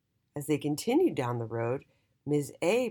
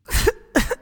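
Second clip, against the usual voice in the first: mock sobbing; 11 dB louder than usual. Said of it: "Then both P's started crying".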